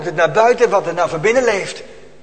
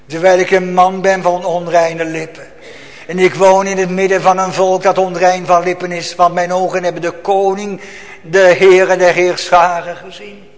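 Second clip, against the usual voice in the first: loud, fervent declaration of unclean lips; full-force preaching confession; prophet's confession; 8 dB louder than usual. Acted. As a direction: proclaim it like a trembling prophet. Quotes the prophet Isaiah.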